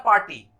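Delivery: पार्टी with the r dropped; पार्टी, the r left out; party, no r. Shown as a demonstration. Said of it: "क्या pronounce होता है".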